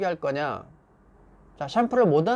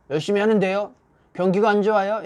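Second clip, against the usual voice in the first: raised, higher defensive excuse; réplique défensive; 4 semitones higher, 4 dB louder than usual. Acted. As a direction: answer the boss back with excuses. Acted employee answering back defensively.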